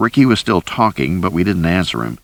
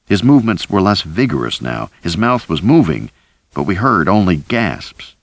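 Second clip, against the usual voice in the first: ordinary delivery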